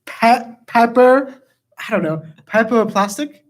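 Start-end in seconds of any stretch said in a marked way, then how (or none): 0.7-1.4 loud trial word in mock Jamaican; bad Jamaican accent. Shown as a demonstration. Player working out the syllables, bad Jamaican accent. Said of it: "get, like, the syllables down". 2.5-3.4 unsure, badly faked Jamaican; bad Jamaican accent. Shown as a demonstration. Player's last try before giving up, bad Jamaican accent. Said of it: "each bad Jamaican accent we do".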